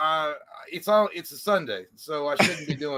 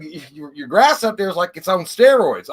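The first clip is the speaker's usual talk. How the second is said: redneck neighbor; 2 semitones higher, 7 dB louder than usual. Retold or imitated. Neighbor praises the lawn in a loud country voice. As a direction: boast like a good old boy. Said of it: "he goes".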